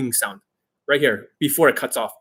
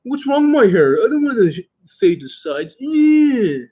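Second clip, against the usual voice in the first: squeaky mocking whine, much higher; 10 semitones higher, 4 dB louder, slower than usual. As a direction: mimic him with a high whiny pitch. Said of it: "And he's like".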